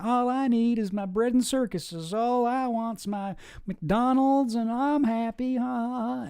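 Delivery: a hint of a lazy, content consumer laughing it off, slowing down; mocking sheeple. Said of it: "he refers to them as serfs".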